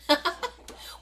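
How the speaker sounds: breathless high laugh with no voice; real amused breathy laugh; airy laugh. Real, not acted. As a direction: laugh it off lightly. Laughs at accent question.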